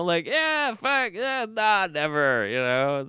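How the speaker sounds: mock them in a silly high voice; sarcastic mock voice. Mocking white people never warred.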